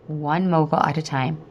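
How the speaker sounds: steady, reassuring self-talk with pauses; calm repeated mantra; self-soothing mantra. Retold or imitated. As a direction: coach yourself gently, one phrase at a time. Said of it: "repeating this to myself".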